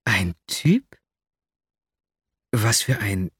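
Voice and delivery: breathless whispered echo. A narrator's reading. Girl whispering his odd word back to him. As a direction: whisper the question back in disbelief.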